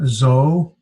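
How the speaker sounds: zoe split as zo, then ay; two separate syllables. Shown as a demonstration. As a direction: hold both vowels of zoe apart. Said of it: "pronounced with two syllables or two vowels".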